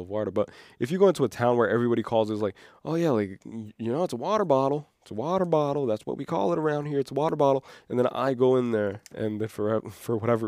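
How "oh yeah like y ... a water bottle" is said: put-on Southern accent. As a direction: imitate a small-town local. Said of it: "very redneck people".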